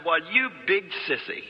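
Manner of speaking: slow, drawn-out jeer; mocking name-calling, taken slow; scornful taunt. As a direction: tease slowly, leaning on each word. Girl mocks him as sissy.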